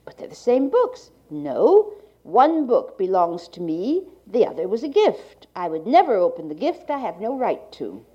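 like a 1980s archival tape. Real, not acted. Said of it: "to Gallant's reading".

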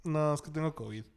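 congested, stuffy voice; blocked nose. Real, not acted. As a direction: talk through a stuffed-up nose. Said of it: "Tengo, tengo mocos".

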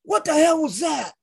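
imitating the promoter's stunned yell; retold outburst. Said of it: "He goes".

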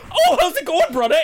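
high-pitched mock showman greeting; traveling hare showman. Mimicking the hare's stage act, high and showy. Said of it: "and he goes".

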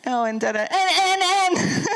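put-on high, insistent little girl voice; imitating granddaughter. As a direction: cut in like a pushy little girl. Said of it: "she goes".

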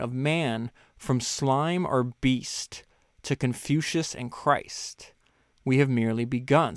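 slow, measured reading; slow reading aloud. Acted. Host reading the hopeful ending to listeners, slow. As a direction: let the grand words land.

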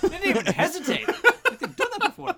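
high, loud, laughing through it; giggly squeaky echo. Retold or imitated. Echoing Pete, laughing.

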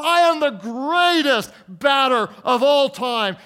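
high, loud shout of a cocky little slugger; boastful kid. Acted. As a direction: proclaim it like a kid hyping himself up. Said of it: "it's like the kid who".

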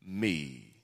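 slow, grave question; voice of Jesus. Retold or imitated. Jesus asking Saul why, slow and solemn. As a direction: draw each word out heavily. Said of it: "now notice what Jesus says".

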